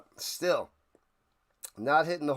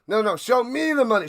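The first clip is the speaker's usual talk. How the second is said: insistent shout; 6 semitones higher, 5 dB louder, faster than usual. Acted. Insisting in the scene.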